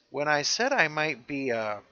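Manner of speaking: humming over the hidden word; teasing hmm. Retold or imitated. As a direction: hum the word instead of saying it. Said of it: "Kate says".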